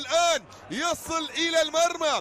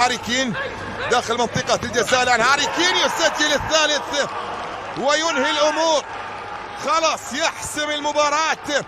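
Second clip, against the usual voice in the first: excited goal call. Real, not acted. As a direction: ride the rising goal moment. Goal call, crowd scene.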